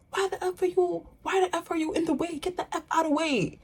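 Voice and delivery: high-pitched, hurried mock scream without real volume; retold screaming. Vlogger imitating a random lady yelling at her, mock screaming. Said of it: "just starts screaming".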